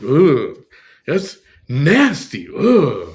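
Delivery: loud, high mock disgust; fake disgust. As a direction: overplay the disgust. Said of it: "this fake disgust".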